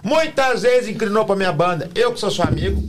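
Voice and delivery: high mock friend voice.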